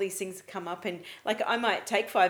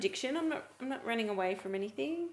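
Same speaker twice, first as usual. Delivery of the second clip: mock-innocent self-justification; sarcastic; 4 semitones higher than usual. Co-host making excuses for phone games, lightly sarcastic. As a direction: play down the habit with light sarcasm. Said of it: "I'm being sarcastic because I know".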